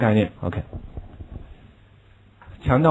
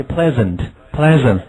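slow, careful repetition; slow model reading; 4 dB louder, much slower than usual. Shown as a demonstration. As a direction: model it slowly for the class. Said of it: "人家说".

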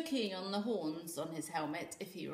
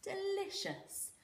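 mocking bully; 13 semitones higher, slower than usual. A narrator's reading. Bully teasing with stolen food.

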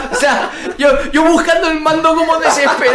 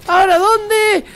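exasperated shout; 8 semitones higher, slower than usual. Real, not acted. Frustrated gamer searching.

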